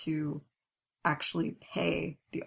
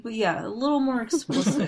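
higher, louder, laughing through it; amused admission, breaking into laughter; 6 semitones higher, 5 dB louder than usual. Real, not acted. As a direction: agree through a real laugh. Amused admission about censored tweets.

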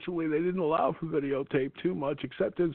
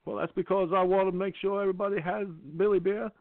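Jimmy Carter impression; 4 semitones higher than usual. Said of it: "there's a different president involved".

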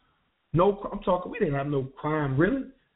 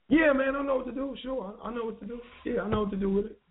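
higher-pitched, over-assured retold reply; acted assurance; 5 semitones higher than usual. Young newcomer assuring the dealer he knows the job, acted eager assurance. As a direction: play the eager newcomer claiming to know.

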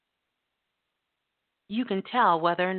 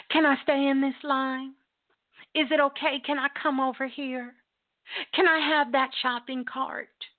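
higher, tentative string of questions; needy permission-asking; 4 semitones higher than usual. Acted. Shopper seeking approval in the grocery store, needy. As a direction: ask permission for every little move.

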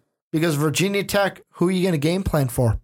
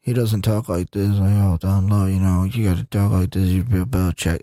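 low, deep gruff-coach impression; Bill Belichick; 8 semitones lower than usual. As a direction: drop into a low coach's monotone. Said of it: "That's the Bill Belichick voice".

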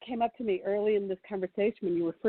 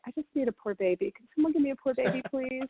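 playful plea; 4 semitones higher than usual. Retold or imitated. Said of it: "Everyone in our family can say".

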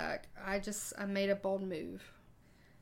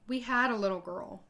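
retold call, louder across the room; belted out; 5 dB louder than usual. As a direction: belt it out, a bit louder than the talk. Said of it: "she belted out".

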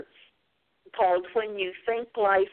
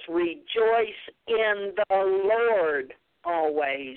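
slow scripture quote; much slower than usual. Shown as a demonstration. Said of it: "Philippians four four says".

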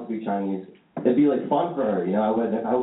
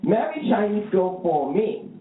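high, slow mock mom voice; hammed-up Chinese mom pleading slowly; imitating his Chinese mom; 10 semitones higher, much slower than usual. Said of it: "my mom's like".

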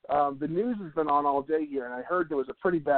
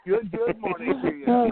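cheesy morning DJ voice; 9 semitones higher, slower than usual. Pretend. Radio host greeting after DJ joke.

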